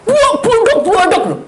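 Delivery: loud, high crash noises; imitated banging. Banging of a spirit throwing things, loud imitated crashes. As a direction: mimic things slamming.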